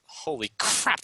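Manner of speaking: breathy surprised gasp of words. Real, not acted. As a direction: react in sudden surprise. Surprise at zergling move.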